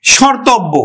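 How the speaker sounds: শর্তব্য said "shortobbo", the m silent; শর্তব্য pronounced as "shortob"; spoken as shortobbo. Shown as a demonstration. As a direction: say শর্তব্য with no m sound. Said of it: "উচ্চারণ কিন্তু স্বর".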